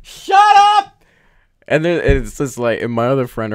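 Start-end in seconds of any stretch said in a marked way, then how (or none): 0.0-1.0 high, loud, real annoyed yell; shout shut up. Real, not acted. Vlogger yelling at her dad mid-story, annoyed high shout. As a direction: bark it out at the interrupter.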